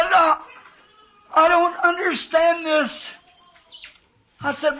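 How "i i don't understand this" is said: higher, half-crying plea of bewilderment; choked-up cry. Retold or imitated. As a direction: voice cracking with emotion as he recalls it. Preacher retells bewildered cry in vision.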